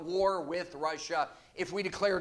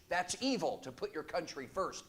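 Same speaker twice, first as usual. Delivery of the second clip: dry sarcasm, dropping softer at the end; sarcastic; 5 dB quieter than usual. Real, not acted. Preacher mocking critics of America first, sarcastic. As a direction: say it with understated irony, letting the end fall away. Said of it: "Yes, I'm being sarcastic".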